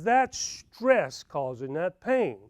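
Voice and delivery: slow, measured doctor's verdict; calm diagnosis. Retold or imitated. Dentist friend slowly tells Sam his pain is stress. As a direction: spell it out slowly like a patient doctor.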